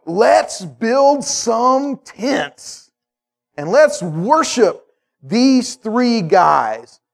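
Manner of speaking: very slow, stretched-out put-on voice; drawn-out eager voice. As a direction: stretch every word, dreamy and eager. Disciples eagerly proposing tents.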